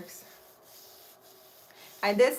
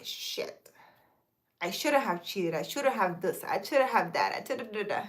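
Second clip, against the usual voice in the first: soft, sinking inner regret; regretful muttered thought; 2 semitones lower, 8 dB quieter than usual. Retold or imitated. Ex-partner thinking back on cheating, soft and rueful. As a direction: voice the cheater's quiet self-blame.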